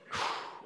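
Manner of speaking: soft, breathy exhausted sigh; weary sigh. Retold or imitated. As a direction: let out a worn-out sigh. Retold boy worn out by digging.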